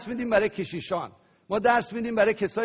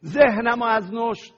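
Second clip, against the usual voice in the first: prayer; 3 semitones higher than usual. Acted. Leads congregation in prayer.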